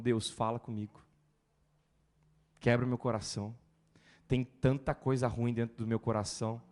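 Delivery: humble prayer before the service; mock prayer. Voicing a sincere prayer.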